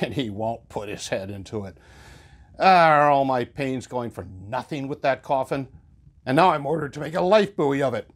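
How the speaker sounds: a carpenter muttering complaints; grumbling old carpenter. Acted. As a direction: grumble like a put-upon tradesman.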